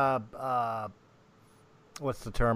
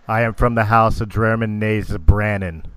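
loud, proud noble announcing herself; haughty drow; 3 semitones lower, 8 dB louder than usual. Acted. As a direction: declare your house with arrogance.

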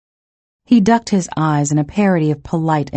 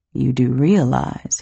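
drawled; 3 semitones lower than usual. Acted. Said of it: "he drawled".

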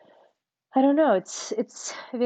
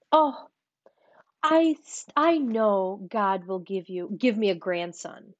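imitating mom in a slow, drawn-out Southern accent; slow Southern drawl, mother hoping for a grandson; slower than usual. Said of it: "She doesn't have a Southern accent".

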